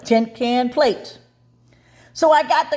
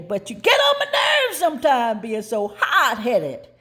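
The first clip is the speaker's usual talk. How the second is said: scolding shout. Retold or imitated. Mother scolding child.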